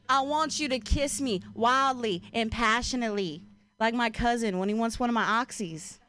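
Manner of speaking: woo them in a put-on country accent. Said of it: "like, in a country accent".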